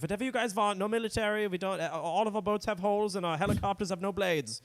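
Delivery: high, eager-to-please caricature; mock meek Germany. Mocking Germany's harmless military in a high, eager voice. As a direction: bend over backwards to please.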